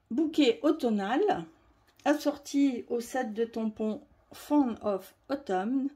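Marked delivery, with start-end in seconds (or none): 4.3-5.9 English product name in a heavy French accent. Real, not acted. Crafter reading a stamp set name, French-accented English. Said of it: "Excusez mon accent anglais qui est déplorable".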